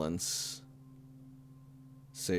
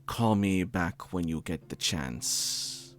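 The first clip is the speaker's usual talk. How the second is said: put-on older man voice. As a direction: leave a fond, hesitant message. GM plays Tanaka's voicemail.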